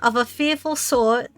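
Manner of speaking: wavering British accent slipping into New York; storybook British voice that drifts. Shown as a demonstration. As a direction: try a posh British read that keeps slipping. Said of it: "going in and out of, like, British and New York".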